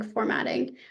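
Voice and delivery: hoarse, voice giving out; losing the voice, whispering it; raspy whisper. Real, not acted. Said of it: "I'm losing my voice".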